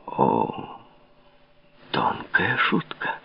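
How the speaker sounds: slow, soft whispered remark. A narrator's reading. The king, softening, whispering to Louise. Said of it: "прошептал король".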